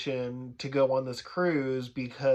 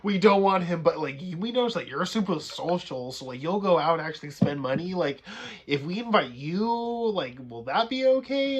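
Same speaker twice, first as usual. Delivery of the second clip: higher, louder mock recruiter; cruise staff voice; 3 semitones higher, 4 dB louder than usual. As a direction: coax like a salesman. Acting cruise staff asking.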